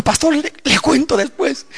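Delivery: high, halting, imitated fear; trembling woman. Preacher voicing sister afraid of her husband, trembling imitation. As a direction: imitate a frightened woman putting off her story. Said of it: "a su casa temblando y me dijo".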